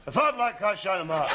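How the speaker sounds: put-on Scottish accent. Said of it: "you better just sit there".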